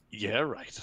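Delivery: dry mock agreement; sarcastic refusal. Asked to buy the next pint, sarcastic. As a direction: agree while plainly meaning no. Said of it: "it means the exact opposite".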